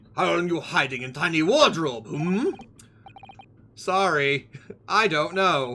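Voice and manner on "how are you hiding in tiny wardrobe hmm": bad, fake put-on Russian accent. Talking to someone who is hiding: bad put-on russian accent. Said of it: "I gotta fucking pretend bad Russian accent".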